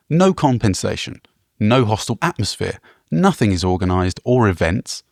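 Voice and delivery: deadpan review read with little change in pitch; monotone reading. Shown as a demonstration. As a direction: read it flat and even, no colour. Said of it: "just in a sort of monotone voice".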